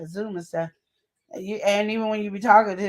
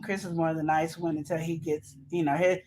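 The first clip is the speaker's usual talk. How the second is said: ordinary talk, nothing marked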